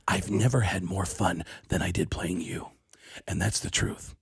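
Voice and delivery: a hint of Baldwin pleading sincerely; lightly voiced Alec Baldwin. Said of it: "And he goes".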